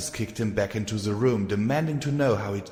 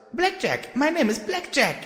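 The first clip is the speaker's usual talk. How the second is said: shouted. Acted. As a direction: yell it out in class, triumphant. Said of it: "and shouted".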